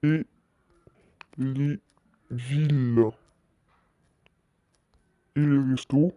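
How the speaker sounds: word by word with long pauses; slow dictation. Real, not acted. Streamer typing out a house-visit announcement, halting word-by-word dictation. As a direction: say each word as you type it.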